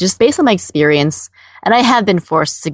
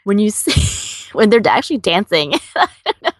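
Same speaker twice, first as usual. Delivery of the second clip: stifled giggles; 3 semitones higher than usual. Real, not acted. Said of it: "I'm trying not to laugh".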